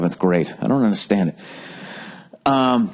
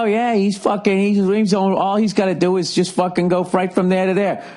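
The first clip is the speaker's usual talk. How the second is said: much higher mock whine about the other guy; hammed-up high envious whine; envious griper; 10 semitones higher than usual. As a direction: whine it high like a jealous runner. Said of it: "you always think that other guy".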